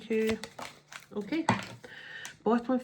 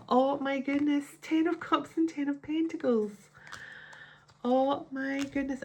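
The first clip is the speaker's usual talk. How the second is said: whispered gasp of amazement, higher; awed whisper; 7 semitones higher than usual. Real, not acted. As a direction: breathe it out in wonder. Pulls striking tarot cards.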